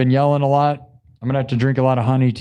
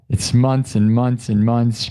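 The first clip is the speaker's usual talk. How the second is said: slow, drawn-out repetition; 3 semitones lower, slower than usual. Shown as a demonstration. Praising loyal viewer on stream.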